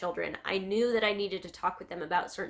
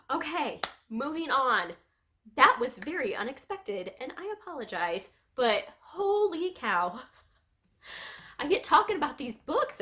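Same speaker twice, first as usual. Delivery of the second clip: higher-pitched, real teary self-consciousness; tearful, recovering; 5 semitones higher than usual. Real, not acted. Vlogger apologizing to viewers for unexpected crying, teary and high. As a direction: shake off the tears with a high voice. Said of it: "all of a sudden I'm, like, crying".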